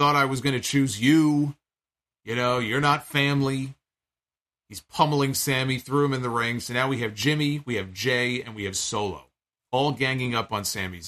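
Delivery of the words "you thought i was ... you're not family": ordinary delivery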